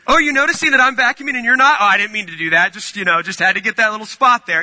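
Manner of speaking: high, sing-song fake innocence; hammed-up fake-nice church helper; mock passive-aggressive. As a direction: chirp it sweetly while making a point. Passive-aggressive vacuuming near others.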